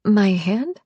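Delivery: "My hand?" with a rising question on "hand"; questioning echo. A narrator's reading. Echoing Nick about her hand, "hand" rising questioningly. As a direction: echo "My hand?" back, lifting the end. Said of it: "I echo".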